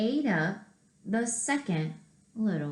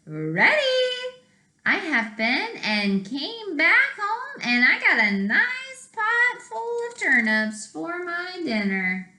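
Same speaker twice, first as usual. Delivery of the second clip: higher, pleased little pig; cheeky little pig; 8 semitones higher than usual. Acted. Little pig tells the wolf he's been already, higher and pleased. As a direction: sound smug like the clever pig.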